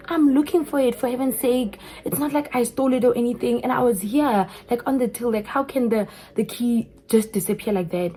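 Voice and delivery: retelling an indignant self-defence; exasperated retort. Retold or imitated. Retold quarrel over the lost key.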